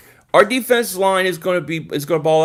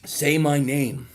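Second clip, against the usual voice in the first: Walter White line; 4 semitones lower, slower than usual. Pretend. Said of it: "Are you freaking Walter White?".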